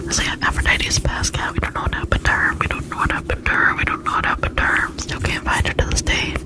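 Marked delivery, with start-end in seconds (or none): 1.5-4.9 repeated trigger phrase. Acted.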